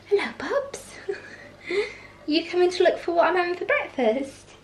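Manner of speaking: high, breathy cooing at a pet. Real, not acted. Talking to the dog.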